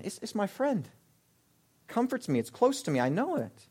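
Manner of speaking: soft, mock-tender confession; fondly clinging. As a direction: speak quietly as if cherishing an old friend. Voicing someone fond of their sin.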